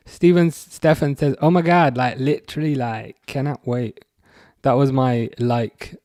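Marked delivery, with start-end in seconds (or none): 1.4-4.0 lightly voiced gushing teen, slowing at the end; a hint of a nineties movie teenager; nineties teen movie girl. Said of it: "literally nineties teenager movie impression".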